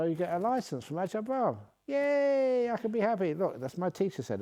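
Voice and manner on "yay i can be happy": put-on high, loud childlike yay; mock joyful cheer. Given a happiness license, cheering high and loud. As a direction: squeal with delight at permission to be happy.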